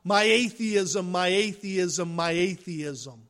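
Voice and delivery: slow, mocking cry of atheism; mock plea. Preacher mocking the atheist's cry, slow mock plea. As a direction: parody a desperate plea, fading.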